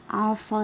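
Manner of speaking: عصا with a long held aa at the end; teacher's drawn-out عصا; elongated final vowel. Shown as a demonstration. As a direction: sound out عصا slowly, stretching the ending. Teacher sounding out example word.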